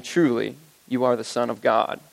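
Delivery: low, reverent declaration. Acted. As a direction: say it as the disciples' awed confession. Worshippers' words in scripture.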